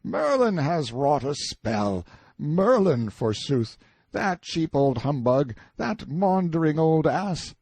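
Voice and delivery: high, loud mocking rant; scornful shouting. A narrator's reading. Prisoner rails at Merlin's supposed spell, scornful shouting. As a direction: pour out derision at rising pitch. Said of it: "and shouted".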